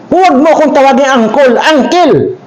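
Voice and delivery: "uncle" said as aŋkol then aŋkil; mild uncle's correction; scolding uncle. Retold or imitated. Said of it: "sabi ko".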